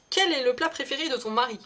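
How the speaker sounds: normal talking voice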